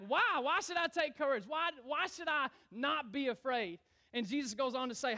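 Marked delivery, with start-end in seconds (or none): 0.1-3.8 high mock yell, easing off; yelling back. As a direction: fire back a freaked-out protest. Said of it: "I'm, like, yelling back".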